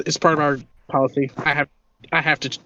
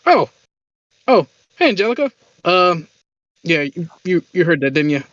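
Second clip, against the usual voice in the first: caught-out surprise; 3 semitones higher than usual. Acted. Shopkeeper caught out, embarrassed.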